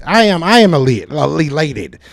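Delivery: strained, scratchy throat; hoarse and straining. Real, not acted. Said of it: "what's wrong with my throat tonight".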